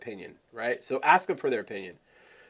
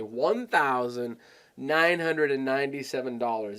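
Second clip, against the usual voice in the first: "one thousand nine hundred and ninety-seven" in full, deliberate parts; spelled-out big price. Shown as a demonstration. Coach showing how to make "one thousand nine hundred and ninety-seven" sound like a lot, deliberate. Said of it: "when you say it like that".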